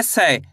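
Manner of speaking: "सै" drawn out as one syllable, pitch falling low; ai-matra demonstration. Shown as a demonstration. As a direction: say "सै" with the ai vowel, sliding down. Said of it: "कैसे करेंगे?". ("सै" का स्पष्ट उच्चारण, गिरते सुर में)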